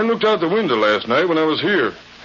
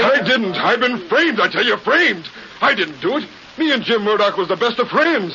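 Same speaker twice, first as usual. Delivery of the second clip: higher, pleading protest of innocence; desperate denial; 5 semitones higher than usual. Acted. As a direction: insist in panic that you were framed. Accused man denies the murder.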